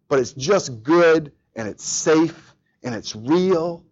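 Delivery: tender, slow. Acted. Tender hug scene for children.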